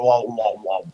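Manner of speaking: spoken "wah, wah, wah"; imitated creature noise. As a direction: lightly mimic a creature's repeated "wah". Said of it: "I'm pretty sure they don't go".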